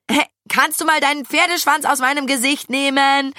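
high, annoyed holler; indignant yell. A narrator's reading. Maja complains to her friend about a ponytail, indignant yell. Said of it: "brüllte Maja ihrer Freundin ins Ohr".

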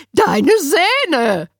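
Zähne with a buzzing s instead of ts; Winnie's lisped Zähne. A narrator's reading. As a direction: say Zähne as "sähne", shrill and loud. Winnie repeats.

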